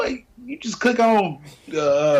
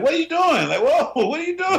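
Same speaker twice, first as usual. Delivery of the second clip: mock shock; 10 semitones higher than usual. Acting shocked in hypothetical.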